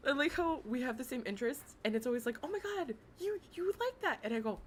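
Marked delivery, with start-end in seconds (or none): 2.4-4.2 high, squealing oh my God; squealed fan question; mock excited gasp. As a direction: gush like a starstruck fan.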